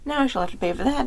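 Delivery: father shocked at the bent axe, loud alarm. A narrator's reading. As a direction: blurt it out in dismay. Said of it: "The father was shocked and said".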